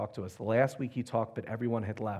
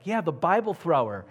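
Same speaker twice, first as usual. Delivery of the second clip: higher-pitched, lively retold reply; animated confirmation; 5 semitones higher, 4 dB louder than usual. Retold caller confirms who it is.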